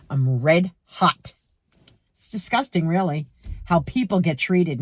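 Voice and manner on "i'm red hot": slowed red hot. Real, not acted.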